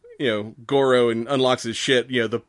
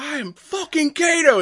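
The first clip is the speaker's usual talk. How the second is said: high, drawn-out cocky outburst; mock boastful yell; 4 dB louder than usual. Kano bragging at the dinner table, mock boastful yell. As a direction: imitate a blowhard, pitched way up and slow. Retold boast in a heated argument.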